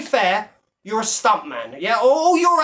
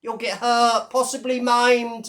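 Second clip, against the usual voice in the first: a lightly voiced pleading fan, higher and slowed; mocking simp voice; 3 semitones higher, slower than usual. Mocking fans who beg Bash not to fight, in a lightly put-on pleading voice. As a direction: mimic a whiny do-gooder begging him not to fight. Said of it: "one of the simps that come on it".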